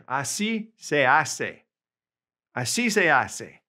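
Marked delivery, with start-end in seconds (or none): 0.1-1.6 slow clear model. Shown as a demonstration. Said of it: "we can say in Spanish".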